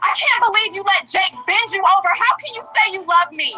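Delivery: furious shouting. A woman confronts the man she loves in a recreated Tubi scene, yelling angrily. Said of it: "She's yelling".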